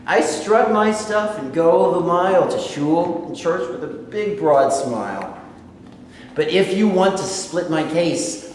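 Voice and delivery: measured spoken verse with a strong rhythm; rhyming poem recital. Acted. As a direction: perform the rhyme for the audience, beat by beat.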